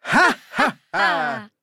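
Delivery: high, loud sung-out ha ha; mock laugh. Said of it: "They say".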